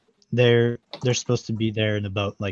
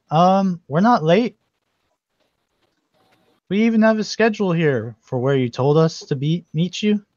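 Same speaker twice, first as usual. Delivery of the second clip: slightly protesting witch, higher and a little louder; lightly voiced witch; 6 semitones higher, 5 dB louder than usual. Witch answering the driver about running late, mildly indignant. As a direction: raise the pitch to object as the witch.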